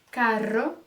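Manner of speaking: carro with a strong trilled rr; rolled rr. Shown as a demonstration. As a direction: roll the rr in carro. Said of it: "Por exemplo". (carro com rr vibrante forte)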